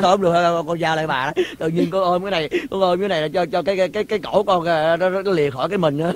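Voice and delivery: hushed fearful talk; scared hushed voice. Acted. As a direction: keep it down so soldiers don't hear. Hiding from soldiers, scared.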